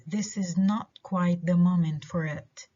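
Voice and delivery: "moment" stressed, "for it" left weak. Shown as a demonstration. Teacher giving last example, stress on "moment". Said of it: "الستريس على كلمة moment".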